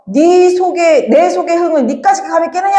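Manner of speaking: a teacher hamming up Cao Cao's fury; mock angry shout. Cao Cao yelling at the feast, a teacher's mild mock rage. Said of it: "조조가 빡쳐서 소리 지르며".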